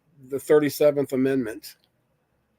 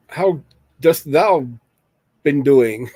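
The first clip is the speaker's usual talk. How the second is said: light hammed-up old-English greeting, a bit louder; mock Shakespearean; 4 dB louder, much slower than usual. Greeting the chat after watching Shakespearean poker players, mock Shakespearean. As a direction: play at sounding like a Shakespeare actor, half-joking. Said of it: "I don't know why I'm talking like that".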